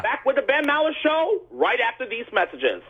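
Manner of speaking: punchy show tease into the break; voiceover promo. Pretend. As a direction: play the station announcer. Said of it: "can you be my voiceover guy".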